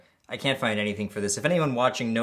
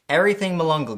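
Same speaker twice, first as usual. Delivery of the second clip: excited call; 6 semitones higher, 6 dB louder, faster than usual. Acted. Hyping up the package.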